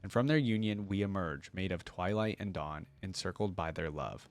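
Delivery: measured poetic reading voice; hymn reading. Acted. Vlogger reciting the lost hymn to viewers, poetic reading. Reads hymn text aloud.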